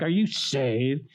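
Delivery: slow, stretched-out "saved"; mocking. Older brother to newly saved kid, mocking. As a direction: drag out the question as a taunt. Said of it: "he did it mockingly".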